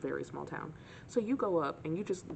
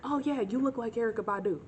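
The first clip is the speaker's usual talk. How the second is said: put-on drunk guy voice; 6 semitones higher, 4 dB louder than usual.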